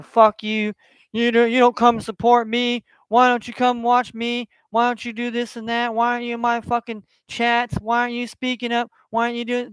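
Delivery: mildly heated mock rant at his chat; mock angry rant. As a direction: pretend to lash out at viewers who don't support you. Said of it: "get charged on people".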